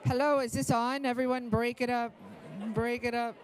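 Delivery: loud call into a clip-on mic; talking into sleeve. Real, not acted. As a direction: speak right into the shirt mic. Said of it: "talking into my shirt like this".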